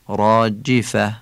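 "راجفه" slowly, with an Arabic i after the jim; Arabic kasra. Shown as a demonstration. Teacher shows the kasra of jim, Arabic pronunciation. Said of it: "کسرهٔ جیم".

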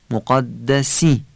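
مقدسی slowly, ending on a clear Arabic "i"; clear Arabic kasra. Shown as a demonstration. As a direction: give مقدسی a crisp classical final "si". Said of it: "تمام این کسره ها رو باید فصیح بگیم".

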